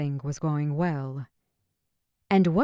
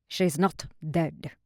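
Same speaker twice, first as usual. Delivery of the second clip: twisted humor. Acted. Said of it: "voice held a twisted humor".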